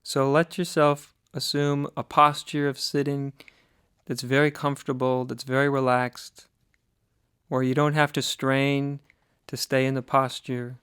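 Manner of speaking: calm, slightly softened meditation voice with long pauses; guided meditation. Acted. Teacher guiding listeners to sit and breathe, guided meditation. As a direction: ease them gently into listening, leaving long silences.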